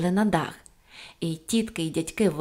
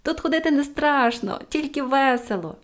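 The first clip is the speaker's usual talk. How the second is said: higher-pitched merry call; cheerful calling out; 6 semitones higher than usual. A narrator's reading. Pippi reassuring policemen on the roof, cheerful call. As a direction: keep calling to them, raised and cheerful. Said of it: "гукнула їм Пепі".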